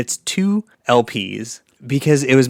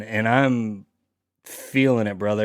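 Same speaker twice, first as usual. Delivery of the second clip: put-on Southern accent; 3 semitones lower than usual. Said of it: "I sound more Southern".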